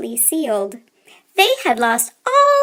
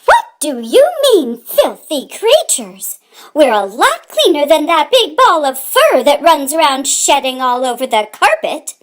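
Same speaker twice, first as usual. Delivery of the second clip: angry mother mouse; 3 semitones higher, 5 dB louder than usual. Acted. Mother mouse defending her family, angry and loud. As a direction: hurl the insult back at them. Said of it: "Mamma Mouse got mad".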